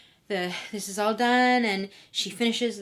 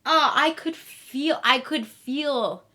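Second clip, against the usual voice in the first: slow wincing; 2 semitones higher, slower than usual. Real, not acted. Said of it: "That was so visceral".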